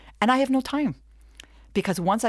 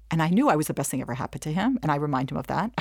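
ordinary talk, nothing marked

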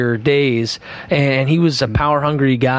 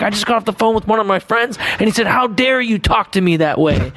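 imitating a screaming pastor; 6 semitones higher than usual. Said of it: "he was turning red and screaming".

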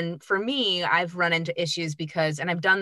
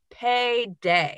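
higher, stretched-out mock celebration; acted celebration; 5 semitones higher than usual. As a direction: draw it out as if relishing the win. Imagined celebration of a union booking.

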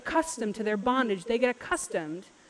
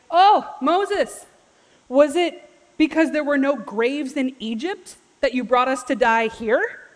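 loud, higher-pitched mock whining; whiny complaining; 3 semitones higher, 6 dB louder than usual. Israelites griping to Moses at the Red Sea, whiny. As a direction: whine it as an overdramatic complaint. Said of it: "they sound really whiny to me".

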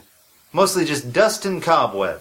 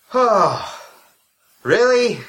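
sarcastic; 6 semitones higher, 3 dB louder, slower than usual. Acted. Sarcastic complaint after scare.

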